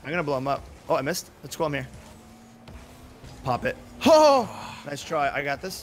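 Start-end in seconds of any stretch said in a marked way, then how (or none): 4.0-4.5 high, loud "Oh!"; drawn-out cry at a near miss; loud shout. Real, not acted. A gamer reacting to a teammate's try, shouting.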